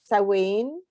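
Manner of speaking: Samhain said "SOW-en", stress on the first syllable; Samhain as S1 says it. Shown as a demonstration. Asked by her co-host to say the festival's name, she offers her own version. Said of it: "I don't even know if I'm saying it right".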